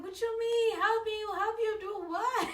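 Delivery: high, loud, incredulous mock yelling; retold angry disbelief. Boyfriend questioning girlfriend about getting help, mock angry. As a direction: fire off outraged questions as the boyfriend. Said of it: "He was so mad".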